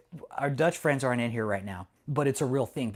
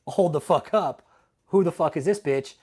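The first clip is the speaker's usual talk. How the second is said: mock outraged officials; 4 semitones higher, 6 dB louder than usual. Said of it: "they're like".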